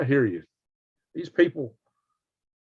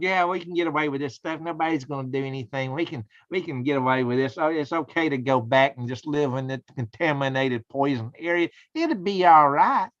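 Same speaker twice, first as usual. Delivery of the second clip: mock smug officials. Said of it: "they're smug".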